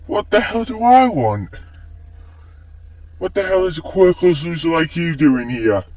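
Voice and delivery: high, indignant bully voice; angry and incredulous, pitch jumping; angry outburst. Acted. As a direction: lash out, pitched well up. Bully's outburst at Deku in the story.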